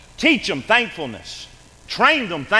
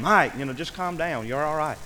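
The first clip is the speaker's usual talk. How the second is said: calming down; 5 dB quieter than usual. Retold or imitated. Preacher holding on to panicked coworker, calming him down. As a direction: settle a panicked friend, easing off softly. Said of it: "just calm him down".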